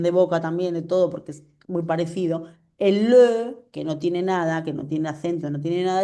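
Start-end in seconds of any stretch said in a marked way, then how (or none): 2.8-3.6 "le" with rounded fish-mouth lips, stressed louder; closed vowel in LE. Shown as a demonstration. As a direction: hit "le" with a tight rounded vowel. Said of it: "pones la boca como un pececito". («le» cerrado, boca de pececito)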